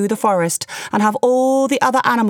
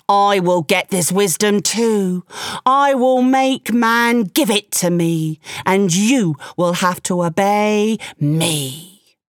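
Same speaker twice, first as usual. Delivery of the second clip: furious; slower than usual. Acted. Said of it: "said Tiger furiously".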